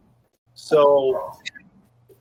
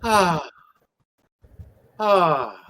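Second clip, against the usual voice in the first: sighing ah; 3 semitones higher than usual. Shown as a demonstration. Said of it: "like a sigh".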